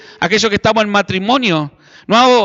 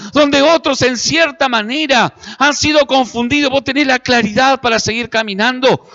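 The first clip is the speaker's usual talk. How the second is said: tempting seducer; 4 semitones higher than usual. Acted. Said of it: "a través de Dalila comenzó y le dijo". (voz de Dalila tentadora, aguda y lenta)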